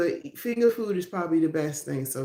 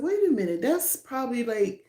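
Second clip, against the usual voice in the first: sudden realization; 4 semitones higher than usual. Retold or imitated. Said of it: "I said".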